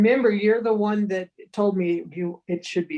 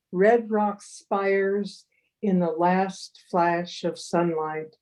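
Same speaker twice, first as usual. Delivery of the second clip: slow, deliberate haiku reading. Acted. Haiku poet reading her Red Rock poem to listeners, slow and deliberate. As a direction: read it twice, savouring each image.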